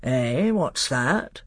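slow, suspicious uncle king; wary royal questioning; Miraz. Acted. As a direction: draw it out, suddenly paying attention. Gave Caspian a very sharp look.

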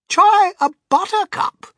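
high, loud, drawn-out urging; excited cry. A narrator's reading. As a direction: cry it out slowly with great relish. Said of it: "cried Mister Wonka".

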